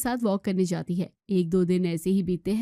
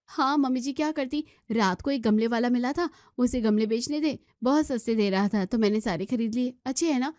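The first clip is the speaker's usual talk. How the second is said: put-on higher, innocent young wife voice; young daughter-in-law; 3 semitones higher than usual. Daughter-in-law answering mother-in-law, higher young wife voice. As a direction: sweetly explain away the mess.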